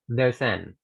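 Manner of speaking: "There's an" as "There-san"; linked. Shown as a demonstration. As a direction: join the s onto "an". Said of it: "Y los voy a juntar".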